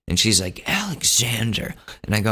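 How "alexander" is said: imitated scolding mom. Mom reacts to son's joke about coke, mock scolding. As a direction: scold by full name as mom.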